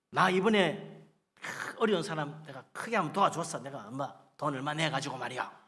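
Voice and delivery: lightly acted do-gooder's brag; mock boasting. Preacher imitates giver bragging of charity, mock boast. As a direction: linger on the opening as if impressed with yourself. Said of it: "자랑하지 말라는 거야".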